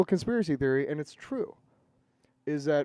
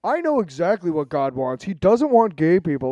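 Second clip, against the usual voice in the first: mock zealous believer; 3 semitones higher, 7 dB louder than usual. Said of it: "pro-Christian are like".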